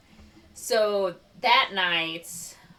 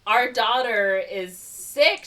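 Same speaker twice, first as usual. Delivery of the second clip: loud, raised, slow fake dismay; mock alarmed father; 5 semitones higher, 7 dB louder, much slower than usual. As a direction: announce bad news with hammed-up concern. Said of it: "He's like".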